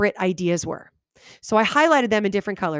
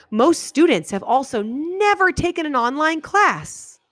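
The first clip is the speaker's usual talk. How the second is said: slow, slightly higher, with a clear stop at the end; slow deliberate read; 7 semitones higher, slower than usual. Shown as a demonstration. Teacher slowing down so students hear the pause. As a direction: read it slowly and land on the end. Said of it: "listen for the pauses".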